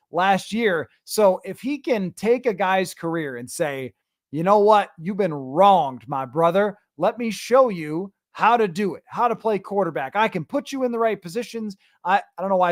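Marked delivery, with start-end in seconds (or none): 4.3-6.0 put-on Southern accent. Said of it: "a Southern accent there". 6.1-11.8 put-on Southern accent. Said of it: "I took on, like, a Southern accent there".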